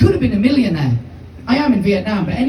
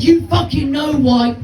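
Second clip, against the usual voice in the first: slow, slightly raised threat; menacing big guy; 4 semitones higher than usual. Retold or imitated. Big guy accusing a pinned boy, mildly menacing. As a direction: lean on each word like a bully. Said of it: "Big guy pins me up".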